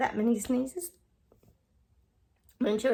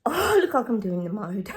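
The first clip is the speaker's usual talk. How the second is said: laughing. Real, not acted. Laughing through sneezing fit.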